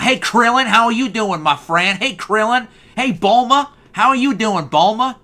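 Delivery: high, loud country-bumpkin cheer; Japanese Goku voice. Retold or imitated. A host imitating Goku greeting his friends, high and loud. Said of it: "Goku would talk like this".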